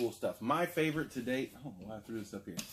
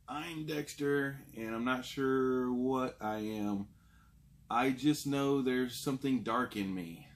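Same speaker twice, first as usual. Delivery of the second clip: slow, whiny, a little higher; 2 semitones higher than usual. Acted. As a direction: whine it out like a sulky kid. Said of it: "says in a high, whiny voice".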